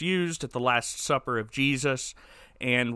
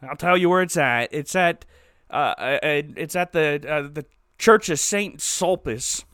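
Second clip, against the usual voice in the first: louder, stammering put-on old man voice; hammed-up terrified confession; caving old man; 4 dB louder than usual. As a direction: panic and blurt the location. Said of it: "And then Sauniere's like".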